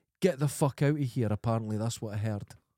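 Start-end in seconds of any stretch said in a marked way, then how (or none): none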